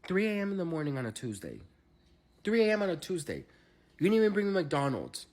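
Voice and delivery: high-pitched, exasperated rant; indignant disbelief. Retold or imitated. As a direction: complain in theatrical outrage. Indignant reaction to 3 AM serenade.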